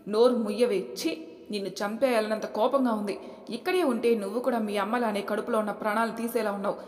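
loud threatening rebuke; furious husband. Acted. Husband threatens his pregnant wife, furious.

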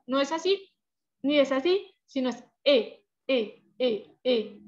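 "E" first too open, then too closed, then the half-open é. Shown as a demonstration. Teacher modelling wrong and right "E" sounds. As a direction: slide through the E shapes to the right one. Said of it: "E, abiertica".

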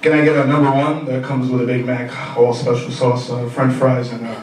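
ordering like a TV ad; infomercial voice. Retold or imitated. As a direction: read the order like a commercial. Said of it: "ordering everything like it's on a commercial".

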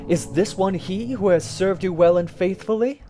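loud, high-pitched question; crying out. A narrator's reading. Townsfolk demanding an answer from the hangman, crying out. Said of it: "And we cried out".

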